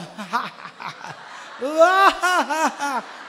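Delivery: loud, long put-on cackle; hammed-up uncontrollable laughter; demonstrated nonstop laughing. Shown as a demonstration. Wife keeps laughing at her husband, exaggerated cackling. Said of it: "Nó cứ là".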